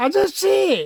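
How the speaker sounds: very high-pitched, piercing shout. Reading a story aloud, a boy calls out to a man: shouting. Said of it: "선우는 소리를 질렀습니다".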